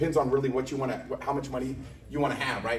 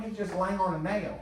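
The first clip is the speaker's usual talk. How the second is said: slow, higher, matter-of-fact auntie voice; Auntie Deborah; 5 semitones higher than usual. Retold or imitated. The auntie calmly explains the dog's trouble, slow and matter-of-fact. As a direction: state it like nothing's wrong. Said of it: "She goes".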